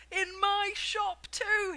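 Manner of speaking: high, loud, slow yell of delight. A narrator's reading. Shopkeeper yelling about his own shop, high and loud. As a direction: crow it proudly. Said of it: "he yelled".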